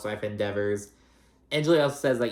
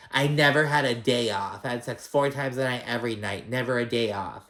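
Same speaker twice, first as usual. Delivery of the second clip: imitating Larsa's bragging; 2 semitones higher than usual. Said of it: "it's just the way she said it".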